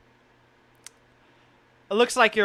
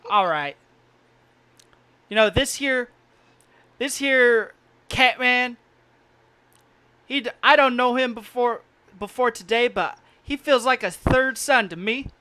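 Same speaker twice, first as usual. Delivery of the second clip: put-on old miner voice; 4 semitones higher than usual. GM voicing Pa.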